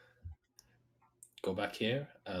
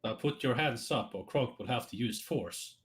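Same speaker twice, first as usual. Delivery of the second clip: robot cop voice; 3 semitones higher than usual. Acted. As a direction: threaten arrest like a robot cop. Kronk repeats command louder.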